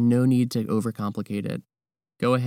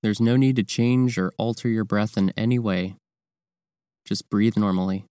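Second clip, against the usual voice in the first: calm, measured meditation guidance with long pauses; guided meditation; 3 dB louder than usual. Real, not acted. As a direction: guide the listener through breathing, leaving space between phrases. Leads the breathing practice.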